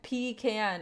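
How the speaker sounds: "pecan" said as PEE-can; old pronunciation. Shown as a demonstration. Streamer quoting what chat typed to tease her, "pecan" as PEE-can. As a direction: pronounce "pecan" in two parts, PEE-can. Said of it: "I used to say it like that".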